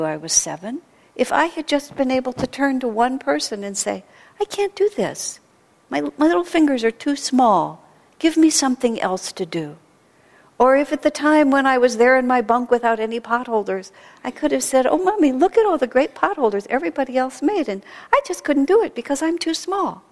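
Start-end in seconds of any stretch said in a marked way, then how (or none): 4.4-9.8 put-on high, small pleading child's voice; little child voice. Seven-year-old at camp begging an adult, high childish plea. 14.9-20.0 put-on high, mildly whining little girl to her mommy; whiny child. Little girl telling her mommy about potholders, high whine.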